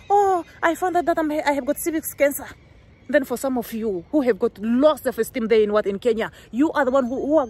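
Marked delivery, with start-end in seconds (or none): 0.1-2.5 higher, mocking attention-seeking voice; mock confession. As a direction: fake a dramatic announcement. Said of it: "on YouTube and say that".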